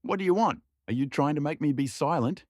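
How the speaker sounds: high, indignant tipsy Cossack; tipsy Dorosh protesting. Acted. Tipsy Dorosh refuses to be silenced, high and indignant. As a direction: bristle at being told to hush.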